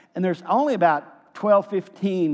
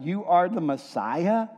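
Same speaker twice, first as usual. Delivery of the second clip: incredulous reminder. Retold or imitated. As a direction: throw his own words back at him, doubting. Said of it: "You remember what you said".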